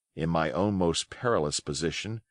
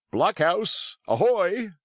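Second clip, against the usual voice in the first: hailing call; 10 semitones higher, slower than usual. A narrator's reading. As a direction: call across to the blockhouse. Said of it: "it cried".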